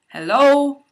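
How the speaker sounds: high, loud sarcastic hello; exasperated call. Acted. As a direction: call out to get their attention. Sarcastic call to staff who ignore her.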